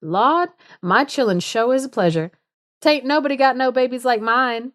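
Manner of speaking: a hint of a bragging Southern mama; mother boasting about her babies, lightly voiced; lightly voiced proud mother. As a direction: read her boast with a little folksy lilt. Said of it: "this quote where she's just like".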